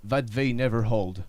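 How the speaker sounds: dramatic movie trailer voice; monster truck ad. Acted. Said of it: "avec une voix de bande-annonce".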